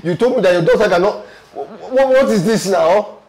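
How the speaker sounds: rising, stammering outrage; exasperated protest. Acted. Injured man's exasperated protest to madam.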